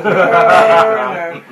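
loud protest. Real, not acted. Bad crossbow shot.

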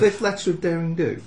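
high, loud, disbelieving question; incredulous. Real, not acted. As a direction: ask it in disbelief. Incredulous question at absurd rule.

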